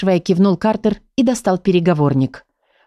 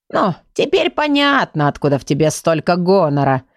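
mocking drawl. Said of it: "насмешливо протянул сборник".

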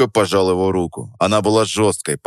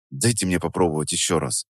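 softer, restrained asking; quiet request; 3 semitones lower, 6 dB quieter than usual. A narrator's reading. Apprentice asks the smith for another try, quietly. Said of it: "сказал я тихо".

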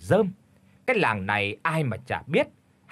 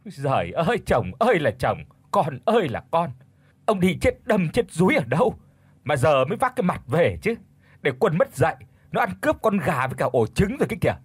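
roaring scold; 4 semitones higher than usual. Acted. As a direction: yell at the husband, rising higher. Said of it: "lại gầm lên". (gào to trách chồng)

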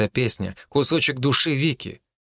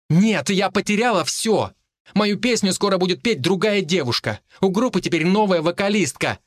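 raised, higher anguished voice; crying out; 7 semitones higher than usual. A narrator's reading. Vika to Artyom about losing her song, crying out. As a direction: cry it out in despair. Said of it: "вскричала Вика".

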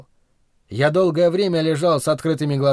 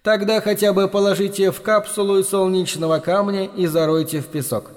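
bored drawl; 4 semitones higher than usual. Acted. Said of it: "скучливо протянул бродяга".

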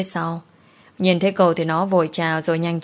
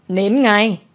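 sharp order; 3 semitones higher than usual. Acted. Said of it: "Bà chỉ tay thẳng vào mặt của nó".

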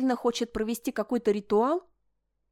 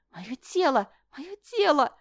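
hysterical panic; 6 semitones higher, 4 dB louder, slower than usual. Acted. Princess panics about her body.

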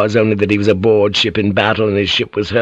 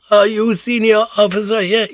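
put-on high, frail old woman's voice; frail old lady; 12 semitones higher than usual. A narrator's reading. Injured old lady addresses Yabu, high frail voice. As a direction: call him weakly, as an old noblewoman. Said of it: "her voice hoarse and frail".

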